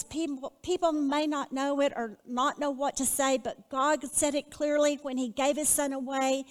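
reciting own verse to the congregation; reading her poem. Shown as a demonstration. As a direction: read it like a poem. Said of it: "phrases I wrote is".

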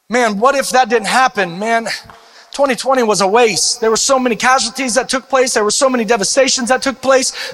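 lightly voiced doubter. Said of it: "we live in a place of what if".

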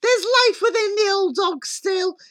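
high, loud mother's outburst; defiant cry. A narrator's reading. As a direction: cry it out with fierce resolve. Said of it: "The mother cried".

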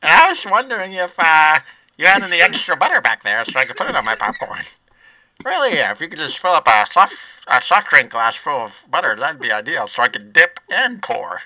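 lightly voiced kid asking; a hint of eager kid; Little Squeezer voice. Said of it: "I should just do both voices".

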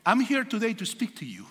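English with a mild Spanish accent; light demo of his Spanish-accented English. Shown as a demonstration. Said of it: "no, con el acento". (inglés con un leve acento español)

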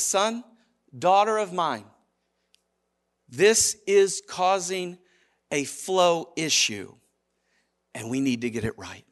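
slow, tender fatherly correction; softening gently toward the end; loving father. Acted. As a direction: counsel a child patiently. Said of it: "he does it as a loving father".

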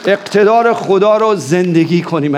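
rising, driving prayer that commands the dark; fiery sermon prayer at full force; fervent warfare prayer. Real, not acted.

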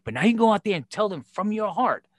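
pep talk. Retold or imitated. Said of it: "I said".

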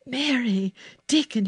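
high, joyful calling of names; elated storybook boy; excited cry. A narrator's reading. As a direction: call to friends with delight. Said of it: "he cried".

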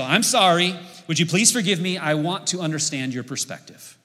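the magic sentence, said sincerely and clearly; sincere apology demo. Shown as a demonstration. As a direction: model a heartfelt apology for the congregation. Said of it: "let me give you a whole sentence here".

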